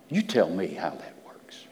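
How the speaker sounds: whispered challenge; hushed dare. Acted. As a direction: lean in and whisper it.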